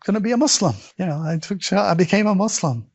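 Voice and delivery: high, excited retold announcement; acting out breaking big news, pitch up; eager announcement. Telling her the big news at home, high-pitched and eager.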